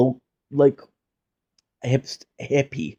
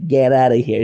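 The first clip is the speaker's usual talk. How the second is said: a firm, fuller "Get outta here", falling; louder disbelief; 4 dB louder than usual. Acted. Talking to a guest, a louder "Get outta here" in disbelief. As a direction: say it out loud to the guest.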